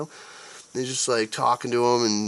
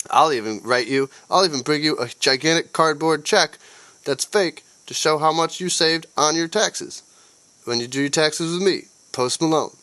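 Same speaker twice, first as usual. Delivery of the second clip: higher, louder, hammed-up commercial voice; mock ad pitch; 6 semitones higher, 4 dB louder than usual. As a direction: sell it like a cheesy TV ad host.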